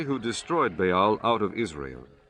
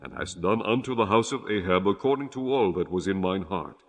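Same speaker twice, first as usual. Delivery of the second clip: voice of the Lord. Acted. The Lord speaks to Jehu.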